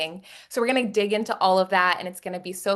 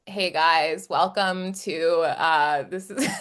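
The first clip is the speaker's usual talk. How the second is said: Eric impersonation; 3 semitones lower, much slower than usual. Retold or imitated. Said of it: "can you do an Eric impersonation".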